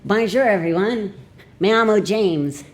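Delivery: high-pitched mangled French and Spanish; bad French and Spanish accent. Learner greeting everyone, in badly accented French and Spanish. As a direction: ham up a clumsy foreigner's French and Spanish.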